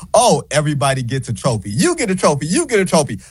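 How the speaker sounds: mock-generous giveaway voice; sarcastic. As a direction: dish out trophies with sarcasm. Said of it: "the quip was just a sarcastic comment".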